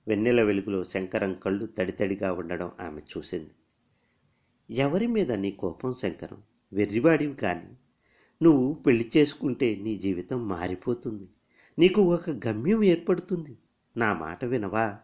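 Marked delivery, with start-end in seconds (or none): 4.7-15.0 gently pleading, coaxing him; a mild plea to a sad friend. Acted. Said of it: "అంది బతిమాలుతున్న గొంతుతో". (బతిమాలుతున్న గొంతుతో)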